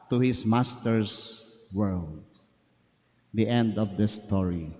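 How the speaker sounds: gentle parable telling for a congregation; story narration. A narrator's reading. Preacher telling a parable to the congregation, gentle narration. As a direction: tell it like a parable from the pulpit.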